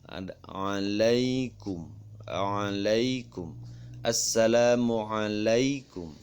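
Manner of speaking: "alaikum" slow, with a long lai glide; drawn-out glide. Shown as a demonstration. Teacher models Arabic reading for children, drawn-out glide on "alaikum". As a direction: stretch the ai in "alaikum". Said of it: "Mengucapkannya juga laikum".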